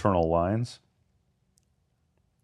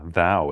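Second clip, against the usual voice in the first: "thou" punched louder; stress on THOU; 5 dB louder than usual. Shown as a demonstration. Student picking out the word to emphasize, loud "thou". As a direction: hit the word "thou" firmly. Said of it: "is the thing that would emphasize".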